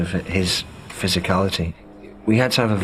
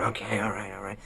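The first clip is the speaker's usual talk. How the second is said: flustered compliance; 11 dB quieter than usual. Retold or imitated. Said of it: "Viggo's running around going".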